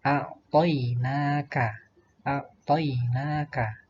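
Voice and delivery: slow, measured "a'toinaka" with stretched vowels; slow recitation model. Shown as a demonstration. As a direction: sound it out slowly for pupils. Contoh bacaan pelan. (contoh tilawah pelan)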